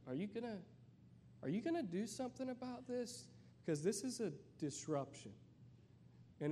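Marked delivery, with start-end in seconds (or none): 0.1-5.3 anxious whisper to the leader. Pretend. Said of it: "I would be looking for, like".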